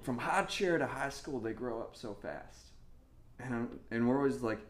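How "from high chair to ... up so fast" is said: laughing while mimicking a country accent. Pastor mocks older couples' country accent, laughing. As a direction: giggle through the country accent quote. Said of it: "they always have this country accent".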